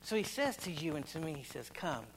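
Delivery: a quiet altar call; hushed invitation. Acted. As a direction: draw them in gently, almost under the breath.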